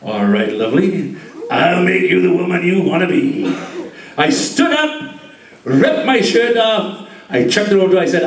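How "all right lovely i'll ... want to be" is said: smooth seductive low voice. Retold or imitated. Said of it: "to say".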